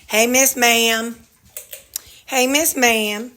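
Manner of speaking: high, slow doggy talk; sweet dog greeting. Real, not acted. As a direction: coo at the dog.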